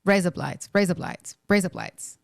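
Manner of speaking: "Raise up lights" run together like Australian "razor blades"; Australian accent demo. Shown as a demonstration. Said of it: "razor blades in an Australian accent".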